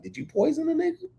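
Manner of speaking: high-pitched incredulous question; mock suspicion. Man asking his date about her husband's death, mock suspicious.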